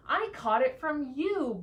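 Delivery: grumpy buzz. Acted. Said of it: "buzzed the cow".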